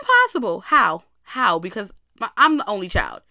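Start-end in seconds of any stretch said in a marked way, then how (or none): 0.0-1.6 high, loud burst of disbelief; shocked disbelief. Retold or imitated. Told she'll be an auntie, shouting high in disbelief. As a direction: cry out as if the news can't be true. Shocked reply to sibling news.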